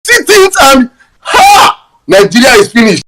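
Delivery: high yelp of disbelief, then a shout; exasperated exclamation. Real, not acted. Speaker despairing over his country, shouting. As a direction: throw up your hands with a sharp cry.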